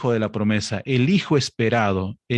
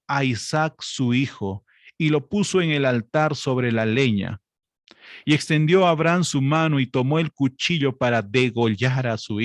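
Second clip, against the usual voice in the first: raised, declaiming Bible reading; higher-pitched pulpit reading of Genesis; scripture reading; 3 semitones higher than usual. Acted. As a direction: read the passage like a preacher in the pulpit. Reads Genesis aloud, heightened.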